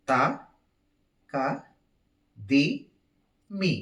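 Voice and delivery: each syllable on its own beat, long gaps between; counted rhythmic syllables. Shown as a demonstration. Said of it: "నేను మీకు చూపిస్తున్నాను".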